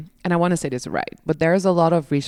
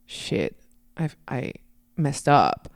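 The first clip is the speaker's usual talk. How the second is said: acted deflation; slower than usual. Acting own deflated reply after show.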